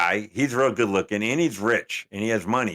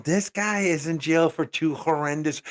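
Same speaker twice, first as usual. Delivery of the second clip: higher, slower appalled protest; incredulous outrage; 6 semitones higher, slower than usual. Retold or imitated. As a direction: spell out disbelief, pitched up and drawn out. Retelling his outraged reaction to fans.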